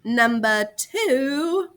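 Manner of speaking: drawn-out announcing of number two; slow, clear list marker; spaced dictation. Shown as a demonstration. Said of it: "dictating bullet".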